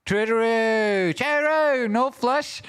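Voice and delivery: very high, slow sing-song; silly high voice. Pretend. Streamer calls silly catchphrases to chat in a squeaky voice. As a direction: squeak it out like a cartoon.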